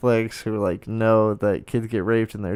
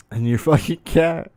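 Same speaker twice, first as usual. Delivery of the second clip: higher, broken up by real laughter; laughing disbelief; 4 semitones higher than usual. Real, not acted. Scolding anti-vaxxers over the cat, laughing disbelief. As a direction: laugh through the words.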